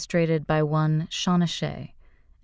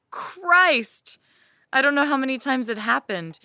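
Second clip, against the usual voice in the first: ecstatic outcry; 9 semitones higher than usual. Acted. Reliving the climax for listeners, high ecstatic cry. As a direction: break out in a cry of release.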